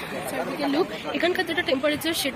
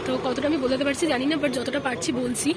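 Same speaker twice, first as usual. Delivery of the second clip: hoarse, worn-out voice; talking through a hoarse throat. Real, not acted. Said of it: "আমার গলা পুরো বসে গেছে".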